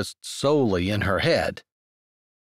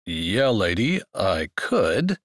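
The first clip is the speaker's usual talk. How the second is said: low man's voice; 5 semitones lower, slower than usual. Acted. Man voiced, lower.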